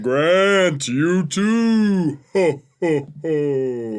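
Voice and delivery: Santa voiced as a spirit; ghost Santa voice. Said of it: "Santa always kinda sound like a ghost".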